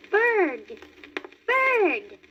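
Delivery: high eager little fawn; excited cry. A narrator's reading. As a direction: call out delighted. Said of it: "he cried".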